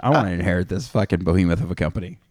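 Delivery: light mock Swedish accent; a hint of Swedish accent, quick. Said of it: "Is that your Swedish accent?".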